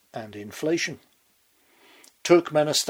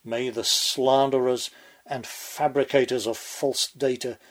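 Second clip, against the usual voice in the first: north korean newsreader. Pretend. Mock state propaganda proclamation.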